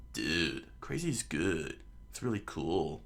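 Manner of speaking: Luffy. Acted. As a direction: drop low and play it unbothered. Acts laid-back Luffy replying.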